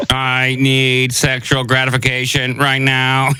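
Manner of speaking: slow, flat robot monotone; deadpan machine voice. Pretend. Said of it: "Sound like humans impersonating robots".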